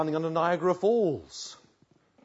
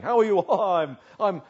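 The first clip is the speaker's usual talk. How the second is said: bright, put-on cheery Christian brushing it off; mock chirpy church greeting, a touch louder; forced smile; 2 semitones higher, 5 dB louder than usual. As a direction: play the grinning Cheshire Cat hiding the hurt. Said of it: "you've got to keep on smiling".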